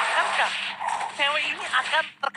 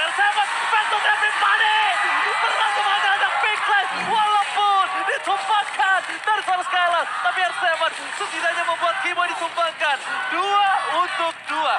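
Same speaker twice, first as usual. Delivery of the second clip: hype caster call; 5 semitones higher than usual. Real, not acted. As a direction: call the fight at full volume. Teamfight play-by-play call.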